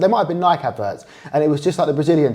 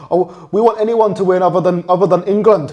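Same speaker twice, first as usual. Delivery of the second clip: put-on Scottish accent; 4 semitones higher, 5 dB louder than usual. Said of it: "Don't criticise my Scottish accent".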